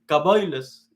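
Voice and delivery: "Kaboiles" said as Ashkenazi Jews say it, ka-BOI-les; Ashkenazi pronunciation. Shown as a demonstration. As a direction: give "Kaboiles" the Ashkenazi sound with "oi" in the middle. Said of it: "ellos dicen diferente". ("Kaboiles" con pronunciación asquenazí)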